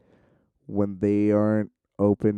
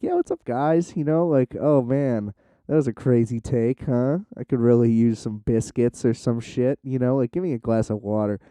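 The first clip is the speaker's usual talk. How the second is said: actor back to his regular self. Retold or imitated. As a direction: switch to a relaxed off-set voice. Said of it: "has his regular accent back".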